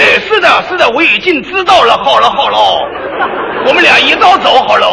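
put-on loud, prissy old movie star voice; old-film Mandarin. Playing the film lover's reply, stagy and loud. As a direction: camp up the stilted screen dialogue. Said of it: "就这味儿".

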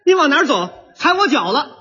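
mock indignant outburst; blunt, aggrieved. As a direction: confront whoever stepped on you. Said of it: "说话都冲。".

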